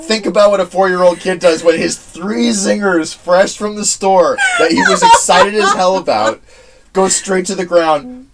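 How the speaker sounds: excited. Retold or imitated. Retelling childhood snack disaster.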